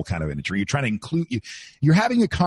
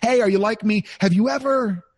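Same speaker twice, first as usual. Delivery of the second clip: rhetorical DJ hook; 10 semitones higher than usual. Shown as a demonstration. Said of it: "the rhetoricals".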